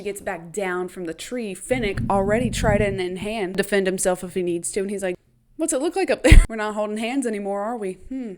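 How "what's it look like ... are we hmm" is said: teasing. Retold or imitated. Finnick teasing Katniss up a tree.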